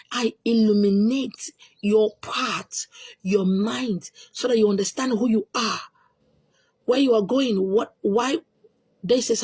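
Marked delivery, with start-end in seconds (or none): 0.1-4.1 slow whisper. Real, not acted. Explaining her name's meaning.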